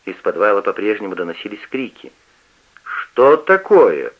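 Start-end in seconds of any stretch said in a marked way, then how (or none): 2.8-4.1 very slow and louder; indignant. A narrator's reading. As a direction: drag it out, building reproach. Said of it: "вскинулся на него отец". (возмущённо, очень медленно и громче)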